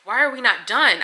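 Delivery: reliving her yelling at the surgeons mid-surgery; retold angry demand. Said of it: "I was like".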